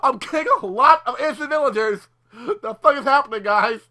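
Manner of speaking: mock-yelling Hades banging on the ceiling; angry Hades. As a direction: shout up from below, annoyed. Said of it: "he's, like, knocking on the roof".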